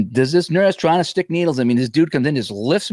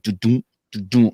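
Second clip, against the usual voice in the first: even do-doom heartbeat sounds; a calm, regular heartbeat sound; heartbeat imitation. Shown as a demonstration. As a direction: tap out a steady heartbeat with the voice. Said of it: "your heart is like".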